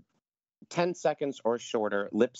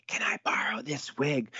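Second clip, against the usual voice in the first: whispered, sheepishly polite ask; hushed polite request to a castmate; 4 semitones higher than usual. Retold or imitated. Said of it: "very politely".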